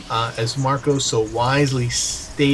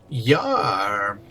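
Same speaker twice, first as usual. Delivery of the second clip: pirate yar; 3 semitones lower than usual. Pretend. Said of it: "it's a fun accent to talk in".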